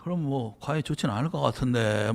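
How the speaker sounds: soft, noncommittal mumble; vague and evasive. Retold or imitated. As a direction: hedge it, never commit. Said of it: "흐리멍텅 우유부단 두리뭉실하게". (흐리멍텅하고 두리뭉실하게 얼버무리기)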